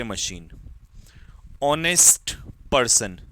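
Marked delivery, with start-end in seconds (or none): 1.6-3.2 ऑनेस्ट पर्सन said slowly and a bit louder, with the ऑनेस्ट stressed; slow dictation. Shown as a demonstration. Teacher dictating ऑनेस्ट पर्सन to students, slow and clear. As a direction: spell ऑनेस्ट पर्सन out slowly for the class to write down. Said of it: "पूरा लिख देता हूँ".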